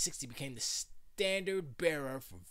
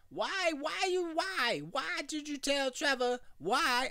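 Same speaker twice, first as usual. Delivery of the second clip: much higher mock parent cry for a level test; 12 semitones higher, 4 dB louder, slower than usual. Shown as a demonstration. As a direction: yelp it up high to test the mic. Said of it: "I'm testing".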